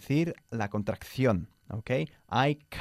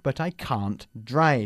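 slow model answer; 4 dB louder, much slower than usual. Shown as a demonstration. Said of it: "slow model".

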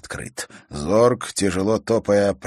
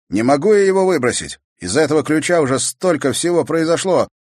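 louder, higher outburst; heated protest; 9 semitones higher, 7 dB louder than usual. A narrator's reading. Brother refusing to throw the key away, heated. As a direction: refuse her hotly.

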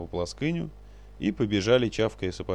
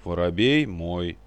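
louder, slowed stubborn «Воробей мой»; stubborn insistence; 2 semitones lower, 6 dB louder, slower than usual. A narrator's reading. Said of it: "упрямо набычившись".

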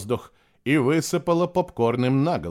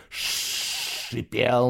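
drawn-out hiss. A narrator's reading. Narrator draws out the hissing sound.

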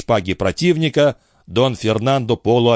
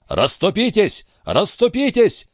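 barked order; 11 semitones higher than usual. Acted. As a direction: bark it to clear the way. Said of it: "рявкнул Дон Фернандо".

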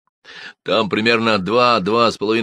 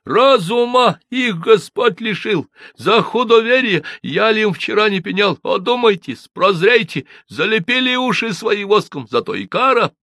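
priest proclaiming; 6 dB louder than usual. A narrator's reading. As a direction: thunder at the sinners. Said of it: "Отец Викентий загласил". (громогласная проповедь)

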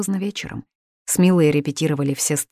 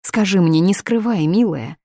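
coaxing mother; 3 semitones higher, 4 dB louder than usual. Acted. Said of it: "уговаривала её Лидия".

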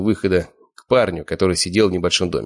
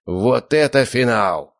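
excited announcer shout; 5 semitones higher, much slower than usual. Acted. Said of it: "проорал ведущий".

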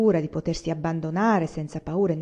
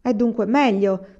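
a touch of anger; 4 semitones higher, 5 dB louder than usual. Acted. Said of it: "stava per dire".

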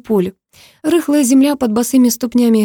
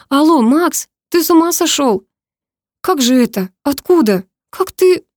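1 excited disbelief; 5 semitones higher, 3 dB louder than usual. A narrator's reading. Stunned call after flower delivery.

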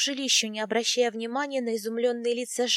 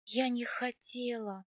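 soft, slow, hushed regret; trembling whisper; 7 dB quieter, slower than usual. A narrator's reading. Wife alone after husband rode off, trembling whisper. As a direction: murmur it weakly, near a whisper. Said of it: "прошептала я дрожащими губами".

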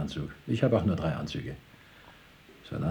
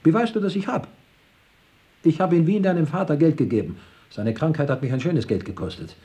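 high, loud, agitated protest; worked-up uncle listing what he has paid; indignant shouting; 5 semitones higher, 4 dB louder than usual. Acted. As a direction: raise your voice in aggrieved self-defence. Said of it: "Was schreist du nur so?".

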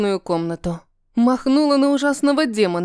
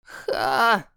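crow caw; 3 semitones lower than usual. Acted. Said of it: "каркнул ворон".

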